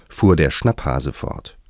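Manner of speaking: ordinary delivery, nothing marked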